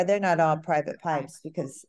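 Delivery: echoing through the room; big hall echo. Real, not acted. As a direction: voice bouncing back in a hall. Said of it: "I'm sorry, I'm echoing".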